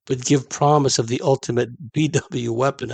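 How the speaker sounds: reading through a slight laugh; laughter creeping into the reading; suppressed laughter. Real, not acted. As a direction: try to read on while amused. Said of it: "I don't know why I'm laughing".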